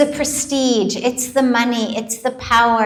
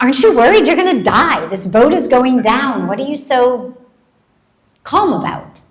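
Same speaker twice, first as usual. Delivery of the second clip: fast and louder, alarmed; mock panicked question; 5 dB louder than usual. Passenger on the capsizing boat asking the calm boy, fast and alarmed. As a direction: rush it out like someone on a sinking boat. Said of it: "somebody says to him".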